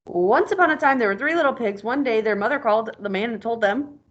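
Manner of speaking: lively storybook reading voice; reading aloud to a child. Acted. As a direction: read it like a picture book to a kid. Teacher reads story aloud to child.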